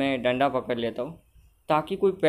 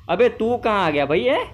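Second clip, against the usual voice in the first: high, loud aggressive challenge; raised-voice mock intimidation; mock confrontation; 7 semitones higher, 4 dB louder than usual. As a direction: play the street tough picking a fight. Challenges an onlooker in game.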